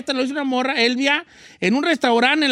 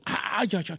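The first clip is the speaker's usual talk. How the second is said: lovestruck sigh; 5 semitones lower, 9 dB quieter, slower than usual. Pretend. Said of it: "veo a la cajera y digo".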